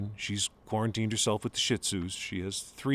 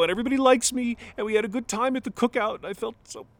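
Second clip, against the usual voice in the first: breaking down; 14 semitones higher, 7 dB louder than usual. Acted. Son confessing his failures to his father, voice breaking into tears. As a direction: voice climbing high and cracking, on the edge of tears.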